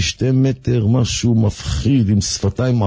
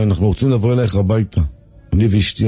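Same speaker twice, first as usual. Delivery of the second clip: threatening voice; 5 semitones lower, faster than usual. Retold or imitated. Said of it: "קול מאיים כזה".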